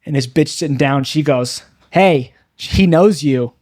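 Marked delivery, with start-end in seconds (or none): 1.9-3.5 slow, mocking drawl; mock him slowly with a sneer; a drunk woman taunting the comedian, slow and mocking. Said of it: "Just mocking me".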